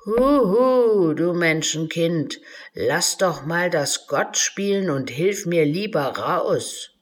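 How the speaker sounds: loud calling huhu, then cheeky grumbling; a hidden little creature teasing the child. Acted. The trapped unicorn calls to Alice, cheeky and teasing.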